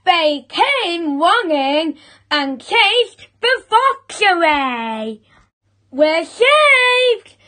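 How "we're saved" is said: high, exclaiming relieved cheer; joyful cry. A narrator's reading. Chickens rescued from the fox, high joyful cry. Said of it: "cried the chickens".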